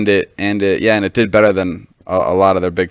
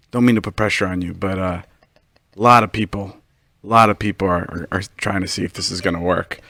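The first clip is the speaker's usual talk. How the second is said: mildly reassuring retold pressure; nicest way; 2 semitones lower than usual. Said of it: "he said it in, like, the nicest way".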